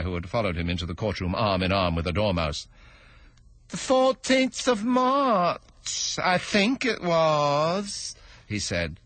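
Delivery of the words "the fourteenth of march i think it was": high, slow stammering plea; timid hatter begging pardon; nervous hatter. Acted. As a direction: stammer it out, afraid of the king. Hatter answers the king.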